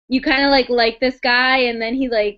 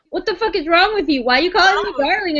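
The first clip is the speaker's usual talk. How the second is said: pissy; 4 semitones higher, faster than usual. Acted. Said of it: "she's, like, pissy too".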